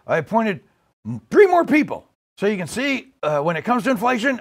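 rough comic presidential impression; lightly voiced rambling president with halting restarts; Joe Biden. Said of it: "playing the part of Joe Biden".

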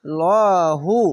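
thick, full l in "ল"; heavy lam. Shown as a demonstration. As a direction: draw out a heavy "ল", then "হু". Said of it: "আল্লাহ লেখাটি মোটা করে পড়তে হবে".

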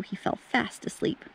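soft whisper as he drifts off. A narrator's reading. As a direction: breathe the words like a lullaby. Child falling asleep in story.

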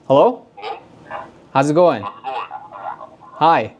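deep voice effect through the intercom; filtered deep male voice; deep uncle voice filter. Shown as a demonstration. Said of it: "So that's like a deep voice".

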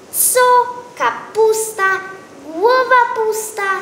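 mocking exclamation. A narrator's reading. Scornful exclamation about the cabbage.

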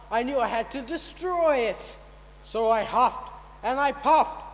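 hammed-up villain boasting; menacing wolf. Wolf boasting to the audience, slow and theatrical. Wolf's stage monologue.

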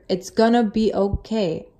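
slow, soft, reassuring delivery; calm voice. Retold or imitated. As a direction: say it still and calm, unhurried. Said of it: "just still the calmest tone of voice".

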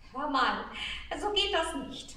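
a star mildly annoyed at being doubted; grumbling. Acted. Star grumbling at the doubting shepherd boy. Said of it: "murrte der Stern jetzt etwas verdrießlich".

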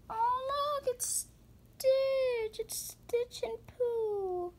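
almost crying over how cute it is; overwhelmed near tears. Real, not acted. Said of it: "my heart, it's just breaking".

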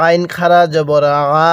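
"আ" as Arabic ain, lightly squeezed in the throat; long "আ" with light throat pressure; throat-pressed ain. Shown as a demonstration. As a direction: press the throat gently on "আইন" and hold "আ" long. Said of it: "গলার মধ্যে হালকা চাপ দিতে হবে".

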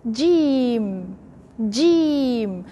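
jim, middle of the tongue; Arabic jim; correct jim. Shown as a demonstration. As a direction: model jim. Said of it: "We move to".

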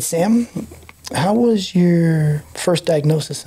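southern drawl. Retold or imitated. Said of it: "he had kind of a southern drawl".

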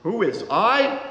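put-on gruff Russian peasant accent; the rabbi playing a Russian peasant woodseller; lightly voiced Russian peasant accent. A narrator's reading. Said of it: "in the accent of a peasant".

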